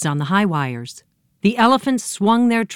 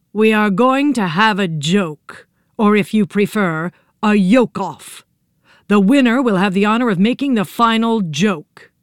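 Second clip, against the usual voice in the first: menacing yolk creatures; 3 semitones higher, 3 dB louder than usual. Acted. A yolk announces the joke contest.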